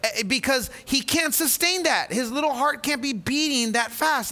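retelling his worried plea to his wife; anxious pleading. Retold or imitated. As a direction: plead for your little boy's heart. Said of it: "I said".

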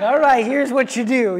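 mock instructor voice. Dad coaching kids to snowboard.

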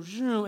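imitated car whoosh; car zoom. Dad tells how cars go down track, imitated zoom. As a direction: make the noise of a car speeding off.

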